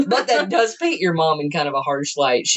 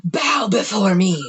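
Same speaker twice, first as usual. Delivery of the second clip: dark lord; 2 semitones higher than usual. Pretend. Mom as queen on throne.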